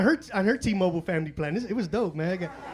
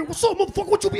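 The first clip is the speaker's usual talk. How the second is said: mock angry gangbanger; 10 semitones higher, 4 dB louder, faster than usual. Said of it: "They be angry".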